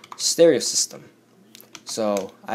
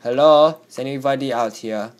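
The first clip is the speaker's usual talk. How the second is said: calling out; 2 semitones higher, 5 dB louder than usual. Real, not acted. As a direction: call out to see who's there. Calling out in the game.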